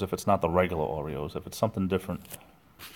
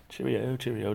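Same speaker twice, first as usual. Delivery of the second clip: mock British accent; 4 semitones higher than usual. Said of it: "I try to do accents".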